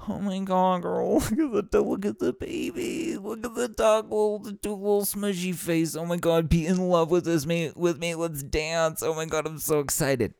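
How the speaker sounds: high, squealing puppy-love gush; gushing excitement. Retold or imitated. Gushing to a friend about the rescued dog, high and squealing. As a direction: coo over a new puppy, way up high. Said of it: "That's the energy".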